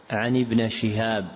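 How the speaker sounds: ابن said "ibna"; fatha on nun. Shown as a demonstration. Teacher citing a misprint, ابن with final fatha. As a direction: slowly, end ابن in a short "a". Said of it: "وقع".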